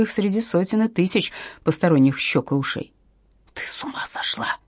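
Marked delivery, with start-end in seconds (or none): 3.5-4.6 sharp unvoiced hiss of alarm; hissed whisper. A narrator's reading. Irina hisses at her friend in hiding, whispered. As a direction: hiss it under your breath, urgent. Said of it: "прошипела Ирина".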